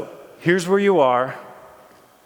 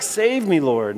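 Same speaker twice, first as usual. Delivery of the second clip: crying out; 3 semitones higher, 3 dB louder, slower than usual. Retold or imitated. Peter sinking in the waves, a mild mock cry. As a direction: cry out to be saved, lightly voiced. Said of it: "he cries out".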